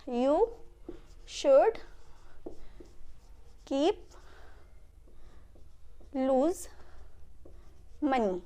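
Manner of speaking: long pauses between each word. Shown as a demonstration. Teacher giving students the sentence structure, word by word. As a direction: dictate it slowly, one word at a time.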